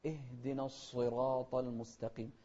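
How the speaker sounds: اهدنا with h running straight into d; slow, no extra vowel in اهدنا; still ha. Shown as a demonstration. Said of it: "بدون قلقلة للهاء". (اهدنا بلا قلقلة)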